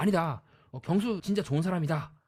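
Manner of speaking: ordinary talk, nothing marked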